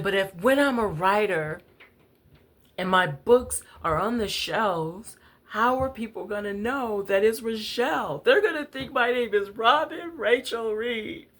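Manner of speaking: put-on a little girl wailing about her name; crying child. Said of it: "real tears are just pouring out".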